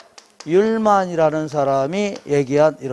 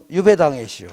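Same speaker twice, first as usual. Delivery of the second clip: light Chungcheong dialect ending; Baek Jong-won; 2 semitones lower than usual. Shown as a demonstration. Lecturer giving a memory phrase, light Chungcheong accent. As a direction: mildly mimic a Chungcheong accent. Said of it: "이렇게 백종원 버전이죠".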